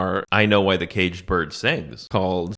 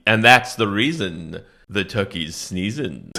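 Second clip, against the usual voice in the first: solemn final refrain; 2 semitones lower, slower than usual. Pretend. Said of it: "it's a powerful poem".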